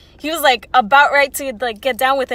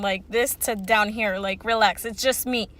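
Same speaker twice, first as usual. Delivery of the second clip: tone brought down; 4 semitones lower, 5 dB quieter than usual. Shown as a demonstration. Customer telling an angry man to lower his tone, calmly low. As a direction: drop the pitch and ease off. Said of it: "your tone from".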